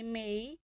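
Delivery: मेई drawn out, rising; stretched second tone. Shown as a demonstration. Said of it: "तो इसे हम थोड़ा खींचेंगे". (मेई खींच कर)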